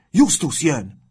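high, loud alarm call; shouted warning. A narrator's reading. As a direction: warn the whole room urgently. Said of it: "kiáltott egy másik".

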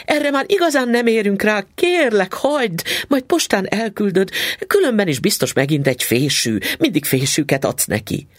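high, pleading rush; anxious wife begging her husband to hurry; frantic plea. Acted. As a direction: beg him to leave it, voice up high.

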